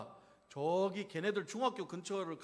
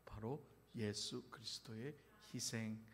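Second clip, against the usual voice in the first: ordinary talk, nothing marked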